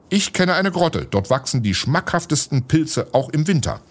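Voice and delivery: an eager cook boasting of her mushrooms; delighted cook. Acted. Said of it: "freute sich die Köchin".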